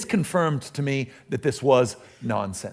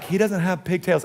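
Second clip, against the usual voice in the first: a slightly higher mock wife voice; lightly put-on voice for his wife; 5 semitones higher than usual. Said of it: "I don't know why I use that voice".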